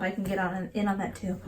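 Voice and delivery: soothing whisper. Shown as a demonstration. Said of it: "I have a soothing voice".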